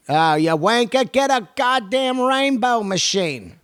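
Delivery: high, hammed-up British scolding; mock British. British rocker mocking a guitarist over a pedal, mock scolding. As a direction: scold in a put-on British accent. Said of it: "If you're British".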